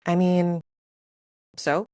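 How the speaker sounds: ordinary talk, nothing marked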